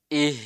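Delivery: IH with a breathy, voiced h held at the end; drawn-out breath closing IH; vibrating final h. Shown as a demonstration. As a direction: keep "ih" vibrating as the breath flows. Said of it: "itu dia tetap bergetar".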